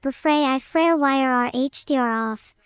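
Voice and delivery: garbled bubbling speech; underwater gibberish. Pretend. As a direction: talk as if submerged underwater. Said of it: "consider that he's talking underwater, so it sounds weird".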